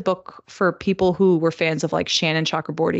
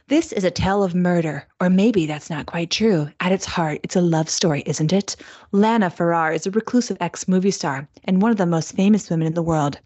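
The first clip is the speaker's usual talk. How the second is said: measured, deliberate story narration; audiobook voice. Acted. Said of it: "That's my audiobook voice".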